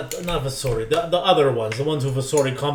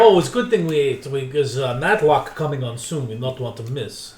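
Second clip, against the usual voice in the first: put-on broken-English accent. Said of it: "nobody else with an accent".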